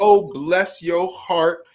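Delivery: put-on sweet, mocking voice. Retelling what grandma said while playing dominoes: imitating sweet trash talk. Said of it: "talk the most smack in the sweetest way".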